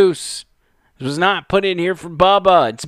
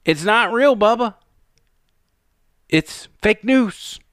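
mock FBI reply; 6 semitones higher than usual. Commentator mocking the FBI's answer to Bubba, lightly voiced. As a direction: toss it off like a scolding official. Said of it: "even though the F B I said".

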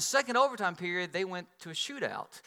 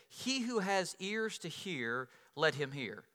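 Jesus quoted softly; 3 semitones lower, 6 dB quieter, slower than usual. Retold or imitated. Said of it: "Then Jesus said".

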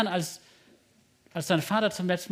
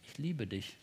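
much lower and softer, intimate; tender whisper-soft; 7 semitones lower, 12 dB quieter than usual. Shown as a demonstration. Preacher models telling God this, softly and tenderly. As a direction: breathe it quietly like a confession. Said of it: "zu dem Gott sagt".

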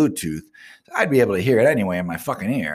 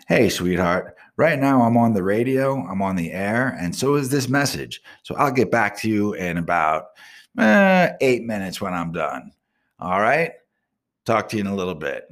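clear, deliberate dictation into the phone; dictating a text. Shown as a demonstration. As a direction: speak each word carefully for voice to text. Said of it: "Let me text her back".

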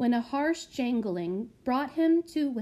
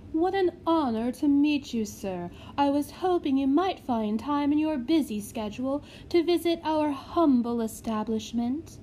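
fawning matron; 5 semitones higher, 3 dB louder than usual. Acted. Reread of same greeting.

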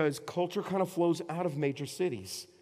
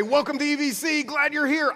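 mock greeter; 9 semitones higher, 6 dB louder than usual. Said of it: "I say".

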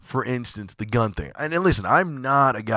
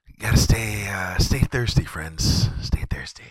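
whispered slogan like a beer commercial; hushed mock commercial tagline. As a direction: breathe the tagline like an ad. Ad slogan parody.

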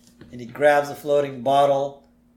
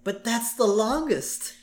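high, slow doubtful Marge; imitating Marge; 8 semitones higher, slower than usual. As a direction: object to the long line. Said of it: "Marge is like".

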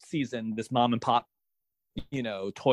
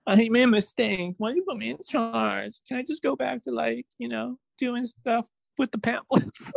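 mock panicky whine; 7 semitones higher than usual. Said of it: "Allegra voiced panicking".

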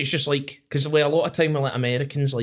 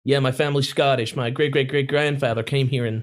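mimicked American voice; American accent. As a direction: put on a proud American's accent. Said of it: "Americans and Australians".

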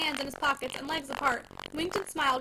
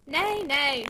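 soothing; 5 dB louder than usual. Acted. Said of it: "said Mister Glegg soothingly".

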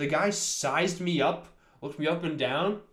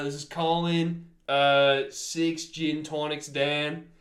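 put-on Australian accent; much slower than usual. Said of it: "I gotta get in character".

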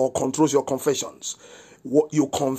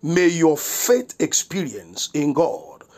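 prayer of blessing. Real, not acted. Pastor praying for the listeners today, emphatic blessing. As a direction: pronounce the blessing with deliberate weight.

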